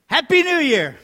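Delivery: a big bright shout of New Year's greetings, pitched high; cheerful loud greeting. Real, not acted. Pastor hailing the congregation with a New Year's cheer. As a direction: call it out to the whole room.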